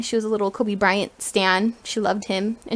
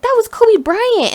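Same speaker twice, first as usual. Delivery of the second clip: high, loud, drawn-out reveal; awestruck exclamation; 11 semitones higher, 6 dB louder, slower than usual. Retold or imitated. Sister revealing the star's identity to uncle, awestruck. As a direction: imitate a star-struck sister, stretching the words.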